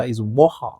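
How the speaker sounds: "water" as "wɔhə" with the Yoruba H; Yoruba accent. Pretend. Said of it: "Don't bring the Yoruba H factor".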